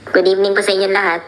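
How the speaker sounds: announcer voice. Pretend. Mock host greeting.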